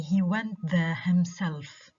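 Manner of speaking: "himself" emphasised on its second syllable, "self"; stress on himself. Shown as a demonstration. Teacher repeating the example, "himself" stressed on "self". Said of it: "that is stressed is the second syllable".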